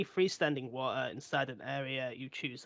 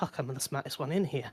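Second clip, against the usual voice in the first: hushed whisper under his breath, to himself. Narrating a character's little panic attack, whispering to himself. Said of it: "he just whispers to himself".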